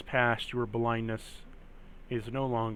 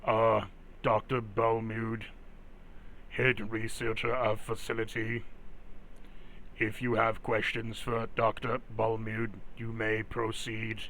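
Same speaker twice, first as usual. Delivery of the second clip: steady mechanical guard voice; robot voice. Acted. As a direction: speak as a stiff security robot. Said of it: "Oh, that robot voice".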